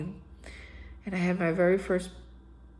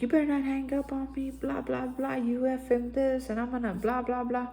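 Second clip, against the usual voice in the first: higher, hushed imitation of telling someone off; mock angry rant; 5 semitones higher, 6 dB quieter than usual. Imitating himself cussing out girlfriend on the phone, mock angry. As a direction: rattle off a half-voiced angry tirade in blahs. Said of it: "I was angry".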